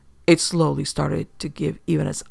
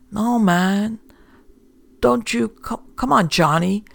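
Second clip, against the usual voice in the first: panicked pleading; 6 semitones higher than usual. A narrator's reading. Herman begging for his life.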